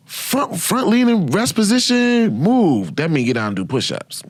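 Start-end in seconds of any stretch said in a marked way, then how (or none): 0.1-3.0 much higher, slow, drawn-out command; drill command. Retold or imitated. Sergeant ordering the private down, drawn-out shouted command.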